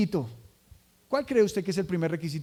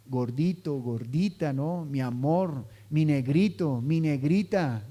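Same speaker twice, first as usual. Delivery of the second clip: affectionate pet names; 5 semitones lower, slower than usual. Retold or imitated. Husband and wife using pet names, lightly cooing. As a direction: coo the pet names gently. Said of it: "tiene palabras de cariño".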